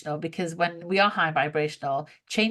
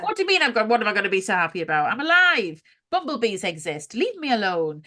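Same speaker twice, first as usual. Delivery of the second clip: defiant retort; 4 dB louder, faster than usual. Retold or imitated. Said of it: "I hate that phrase".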